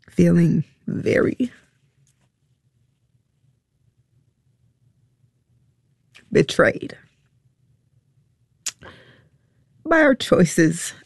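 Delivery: fighting back tears on the last words; voice breaking. Real, not acted. Mother confessing her daughter felt betrayed, voice breaking.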